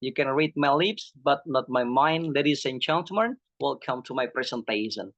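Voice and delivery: demonstrated public speaker's opening; lightly staged welcome to an audience; presentation with style. Shown as a demonstration. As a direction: open a talk with a touch of flair. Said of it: "Pakai gaya".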